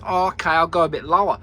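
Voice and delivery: lightly voiced machine, quick and chirpy; voicing the machine. Farmer mocking the tractor's front: light chirpy machine voice. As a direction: give the machine a breezy naive voice. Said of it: "the front thinks".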